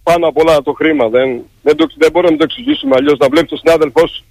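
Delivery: real upset, pitch jumping about; halting, giving up mid-thought; close to tears. Real, not acted. Striker despairing at inhuman employers, close to tears. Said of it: "νιώθω να, να, να, να κλαίτε".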